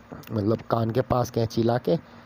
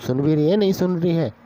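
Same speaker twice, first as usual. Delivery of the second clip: boss shouting; 4 semitones higher than usual. Retold or imitated. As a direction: bark it at her, climbing in pitch. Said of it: "वो boss एकदम चिल्ला के बोला".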